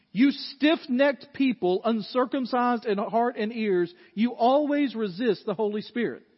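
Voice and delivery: slow, measured scripture reading; reading the verse. Shown as a demonstration. Pastor slowly reads the verse to his congregation, measured. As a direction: read it out slowly and deliberately. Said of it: "This is his invitation".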